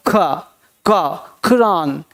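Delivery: ख, क, खुरान with a vibrating throat sound; slow demo of खुरान with vibrating ख; vibrating nukta sound. Shown as a demonstration. Teacher showing learners the nukta sound, vibrating pronunciation. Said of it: "नुक्ता का मतलब होता है vibrating sound".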